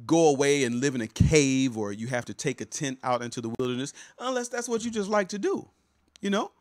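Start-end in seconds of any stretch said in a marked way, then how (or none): 4.2-6.5 playful aside. Acted.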